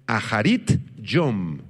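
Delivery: "aharit yom" said slowly, aspirated H, stress on the I; slow "aharit yom", accent on final I and on O; Hebrew pronunciation demo. Shown as a demonstration. Pastor teaches a Hebrew expression, "aharit yom" slow with final stresses. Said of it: "con H y acento en la I".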